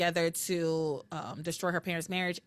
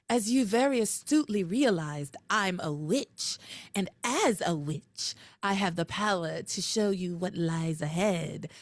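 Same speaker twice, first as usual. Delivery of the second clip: Tabitha voice. Retold or imitated. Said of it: "my Tabitha voice is terrible".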